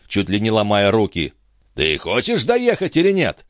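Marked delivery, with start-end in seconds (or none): 1.7-3.4 higher, exasperated demand; through gritted teeth. A narrator's reading. Jean challenges Chon about the trip, through gritted teeth. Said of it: "скрипнув зубами, спросил Жан".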